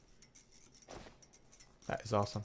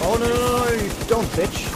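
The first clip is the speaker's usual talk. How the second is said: excited yell; 10 semitones higher than usual. Real, not acted. Enemy escaping, gamer yelling.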